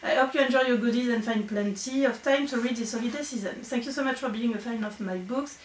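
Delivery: English letter read with a heavy French accent; strong French accent in English. Real, not acted. Reading Lucy's thank-you note aloud, strong French accent in English. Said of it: "vous avez vu mon super accent".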